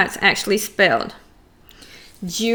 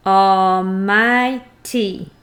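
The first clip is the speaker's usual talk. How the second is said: Almighty stretched very slowly, each syllable pulled apart; 4 semitones lower, much slower than usual. Shown as a demonstration. Teacher spelling out Almighty's syllables for her students, very slow. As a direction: drag out Almighty so the kids can count the beats. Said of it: "How many do you hear in almighty?".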